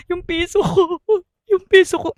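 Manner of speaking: a hint of a drunk whining over a coin; mock-whimper for the lost coin; lightly voiced drunk sobbing; drunk crying. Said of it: "Iyak daw siya".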